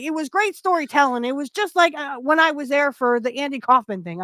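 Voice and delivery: badly faked Southern accent; Jim Cornette. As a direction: attempt a light Southern accent. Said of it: "I can't do the Southern accent".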